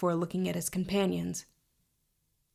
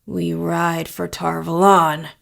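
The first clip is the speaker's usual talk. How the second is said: snapped command; 8 dB louder, slower than usual. A narrator's reading. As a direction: give the order curtly, weighting each word. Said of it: "he snapped".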